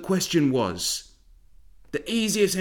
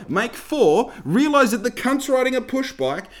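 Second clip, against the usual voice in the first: heated rant; 4 semitones higher than usual. Real, not acted. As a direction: vent the frustration hard at the butcher. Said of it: "I'm sorry I'm getting heated here".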